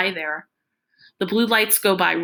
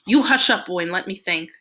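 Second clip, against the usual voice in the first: sharp hush command; 3 dB louder than usual. Acted. Father snaps at the boy.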